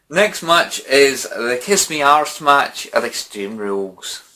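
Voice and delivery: slow, hammed-up Irish accent. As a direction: drawl it in a bad Irish accent. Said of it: "supposed to be my bloody Irish accent".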